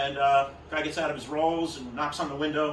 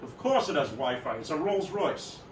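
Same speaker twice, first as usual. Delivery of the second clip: lightly voiced pompous rich man, drawn out at the end; a touch of haughty grandeur; pompous and imperious; slower than usual. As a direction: answer imperiously, stretching the final words. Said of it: "very pompous and imperious".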